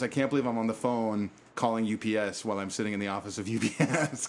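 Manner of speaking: put-on light Boston Revere accent. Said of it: "Boston Revere accent kind of thing".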